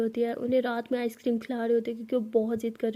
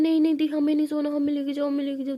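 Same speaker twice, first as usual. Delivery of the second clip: put-on whining kids; 3 semitones higher, 4 dB louder than usual. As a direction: protest like stubborn kids. Kids refusing to sleep. (सोने से मना करते बच्चे)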